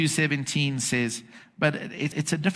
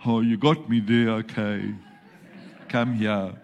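lightly voiced grudging God, caving in; a hint of a beaten God, huffing then softening; angry God giving in; 3 semitones lower than usual. Angry God to the forgiven sinner, mildly grudging surrender. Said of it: "And then angry God goes".

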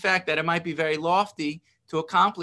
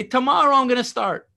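mock procrastinator; 4 dB louder than usual. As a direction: play the cheerful putter-off promising tomorrow. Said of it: "And you're not gonna say".

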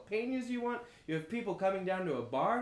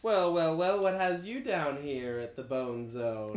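sly barkeep; 2 semitones lower, 4 dB louder, slower than usual. Acted. Player voices a bartender character.

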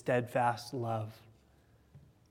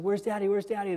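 higher-pitched mock child's call; imitated child crying out; 5 semitones higher, faster than usual. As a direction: lightly imitate a kid calling for a parent. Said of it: "they're just crying out".

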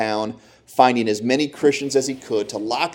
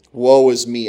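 crying out; 6 dB louder, slower than usual. Acted. Isaiah's cry repeated louder.

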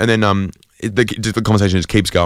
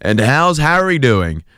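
uncle's voice; 6 semitones higher, slower than usual. Retold or imitated. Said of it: "I heard my uncle ask".

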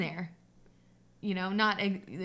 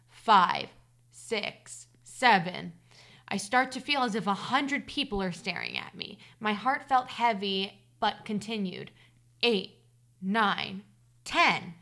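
story narration; slower than usual. A narrator's reading. Reader telling listeners of a childhood hide-and-seek scare, story narration. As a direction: read the tale aloud, measured and deliberate. Reads a personal story aloud.

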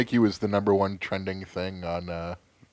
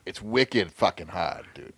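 put-on New England accent; slower than usual. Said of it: "thickest fucking New England accent you will ever hear".

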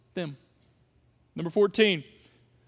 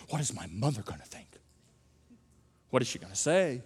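worried about mother; 9 semitones lower, 6 dB quieter than usual. Retold or imitated. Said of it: "thoughts that constantly are saying things like".

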